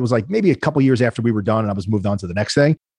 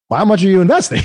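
incredulous; 8 semitones higher, 4 dB louder than usual. Retold or imitated. Incredulous retort to greedy offer.

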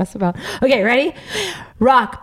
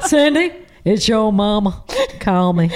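Tennessee mama voice; 2 semitones lower than usual. Retold or imitated. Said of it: "that was the voicemail I always got".

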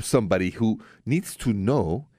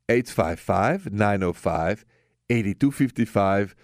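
slow number read; slower than usual. Shown as a demonstration. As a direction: read the digits slowly, one by one. Phone number repeated slowly.

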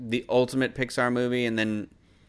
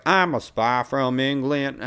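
bad English accent; slower than usual. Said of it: "I can't do an accent right now".

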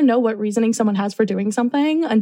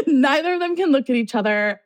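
laughing; 4 semitones higher than usual. Real, not acted. Laughs while repeating.

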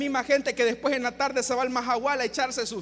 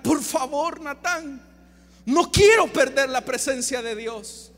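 slow, drawn-out plea; pleading; slower than usual. Acted. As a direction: implore as the repentant David. David implora al profeta Natán. (súplica lenta y sentida)

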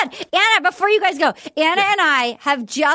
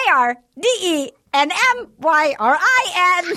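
spelling slowly; 3 semitones higher than usual. Shown as a demonstration. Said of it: "You try spelling my name".

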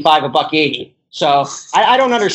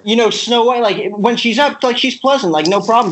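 excited; 5 semitones higher than usual. Real, not acted. Excited praise of Snow White.

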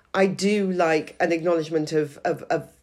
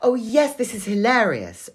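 tactful fake delight; 5 semitones higher, 4 dB louder, slower than usual. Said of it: "a tactful way to say that".

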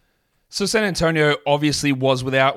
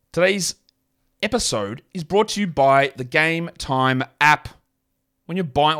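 "Today's episode" in a robot voice. Pretend. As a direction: read the ad like a robot. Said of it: "why do I sound like a robot then?".

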